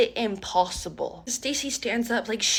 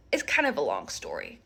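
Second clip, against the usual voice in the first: much lower, cool voice; a lower, self-assured Stacy; low confident voice; 4 dB quieter than usual. Retold or imitated. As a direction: drop into a sultry low register.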